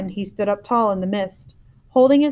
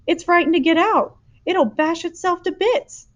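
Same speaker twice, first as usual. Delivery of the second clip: higher, a touch of worry; worried giant; 9 semitones higher, 4 dB louder than usual. A narrator's reading. Giant to the girl about the dream, concerned. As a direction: explain with concern.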